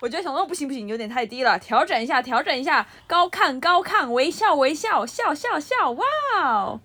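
pushing the voice up step by step, brighter. Shown as a demonstration. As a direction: coach yourself up into a high cheerful voice. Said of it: "我会故意装". (故意把声音调高、更开朗)

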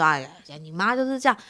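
轻松随意的口吻; 假装不在意地随口说; casual and light. Retold or imitated. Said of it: "用那种轻松的态度跟口吻说". (轻描淡写地说)

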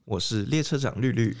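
formal radio announcer read; broadcast announcer voice. Pretend. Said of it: "你刚才为什么用播音腔讲话".

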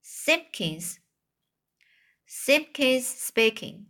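lightly voiced pompous father answering the phone; important telephone voice. Father answering the phone, a hint of pompous telephone voice. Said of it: "very important telephone voice".

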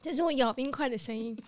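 talking around ice cubes; ice in mouth. Real, not acted. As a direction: crunch ice while speaking.

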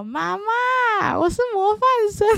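put-on child shouting to her mother about the award; excited kid shout. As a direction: holler it across the restaurant like a proud kid. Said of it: "我就很大声的一直嚷嚷说".

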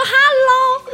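high, slow mock-indignant hello; exasperated. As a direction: drag it out in disbelief. Exasperated reaction to age guess. (被猜老时夸张的无语)

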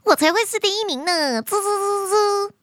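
high, quick, hissing snake voice. Acted. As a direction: boast and end with a snake hiss. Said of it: "蛇姐姐说".

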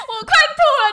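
loud, high laugh breaking into the words; groan-laugh, half appalled; laughing in disgust. Real, not acted. Host reacting to friend's confession, laughing loudly.

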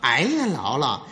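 softly chiding wife, lightly voiced; wife smoothing things over. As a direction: gently scold to cover for the husband. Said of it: "给他打个圆场".

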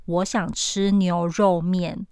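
我想吃牛肉面 said slowly, every syllable full; slow, careful reading of the phrase; 自然语速; natural speed. Shown as a demonstration. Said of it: "你会说".

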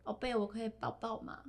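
breathy soft pleading; cutesy whisper. Shown as a demonstration. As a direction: plead softly for a hug. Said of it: "就说".

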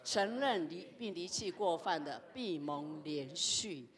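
slow, measured congregational reading; reading scripture aloud. Real, not acted. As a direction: read the proverb together, drawing out the ends. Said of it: "一起来念". (带领会众缓慢朗读经文)

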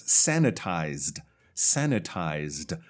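slow "Sanitized" with the last D sounded; careful model of "Sanitized", ending fully released; clear final D. Shown as a demonstration. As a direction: say "Sanitized" slowly, finishing on a clear D. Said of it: "there's a D on the end".

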